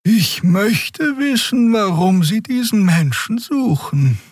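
high, slow wondering voice; musing aloud. A narrator's reading. Xia wondering aloud to Kero, high and slow. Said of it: "überlegte Xia laut".

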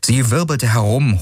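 plain reading voice

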